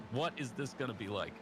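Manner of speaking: put-on a rough go at an Irish accent; attempted Irish accent. Host asking his co-commentator Jack, attempted Irish accent. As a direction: try an Irish lilt, not very convincingly. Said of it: "attempt at an Irish accent".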